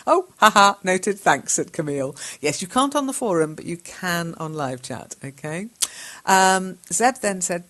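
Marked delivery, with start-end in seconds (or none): 0.1-1.5 laughing. Acted. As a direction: read it loudly through a laugh. Reads amused chat reply.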